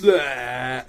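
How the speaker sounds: loud, drawn-out nonsense bleat; mock Welsh noise. Host starts Stuart's letter, mock Welsh noise. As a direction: let out a silly fake-Welsh bleat. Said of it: "in my Welsh accent".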